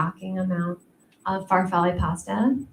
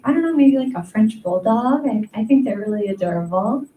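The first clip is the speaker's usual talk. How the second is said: eager teacher; 4 dB louder than usual. Retold or imitated. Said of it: "I was like".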